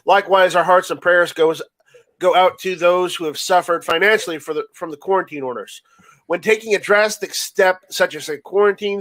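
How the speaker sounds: measured formal read-out with small stumbles; reading a statement aloud. Real, not acted. Reading friends the sheriff's quarantine statement, formal read-aloud. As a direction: read out an official statement, phrase by phrase.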